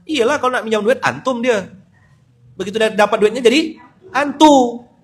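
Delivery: loud, high mocking retort; fired up. Real, not acted. Preacher mocking fake pious swindlers, loud and fired up. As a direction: really get worked up. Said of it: "ngegas lupa saya".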